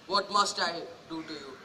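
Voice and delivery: quiet, low and defeated; broken. Acted. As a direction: let the question collapse. Repeats the question brokenly.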